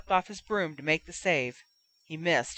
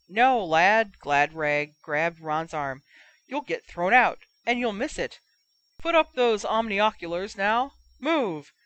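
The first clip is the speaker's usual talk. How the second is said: urgent restraint; 3 dB louder than usual. Acted. Gladrag restraining Ron.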